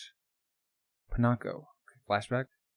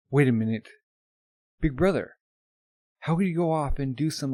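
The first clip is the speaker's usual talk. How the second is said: alarmed outburst; 2 semitones higher, 4 dB louder than usual. Acted. Al realizing what Ed did.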